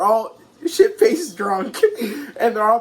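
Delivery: slow, drawn out into a laugh; amused, laughter spilling out at the end. Real, not acted. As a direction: crack up as you finish the phrase. Amused recap of drunk characters.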